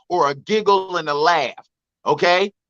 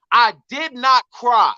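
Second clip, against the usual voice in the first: slow, measured "I did not cry"; emphatic denial; 4 semitones higher, 3 dB louder than usual. Real, not acted. Man denying his cousin's claim, emphatic denial. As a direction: stretch out each word of "I did not cry".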